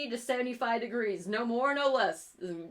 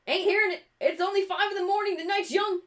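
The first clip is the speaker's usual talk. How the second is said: playful loud tease; 9 semitones higher, 5 dB louder, faster than usual. Acted. Teasing chat for more hype.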